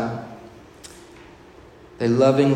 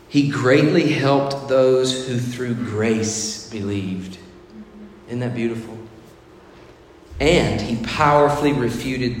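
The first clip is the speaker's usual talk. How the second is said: slow reading; 2 semitones lower, slower than usual. Acted. Reading scripture slowly.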